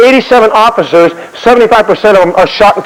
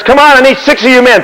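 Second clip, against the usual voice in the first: acted rallying call; 5 semitones higher than usual. Acts Washington calling for gun crew.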